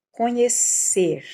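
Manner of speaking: "Conhecer" drawn out, the last syllable strong; final syllable stressed. Shown as a demonstration. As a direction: stretch "Conhecer" and land on -cer. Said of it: "também tá aqui no final".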